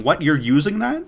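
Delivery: incredulous zombie groaning the line. Acted. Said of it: "that should be a zombie line".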